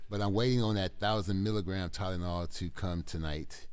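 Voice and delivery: groggy from painkillers after surgery; drowsy, medicated speech. Real, not acted. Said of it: "I probably sound different".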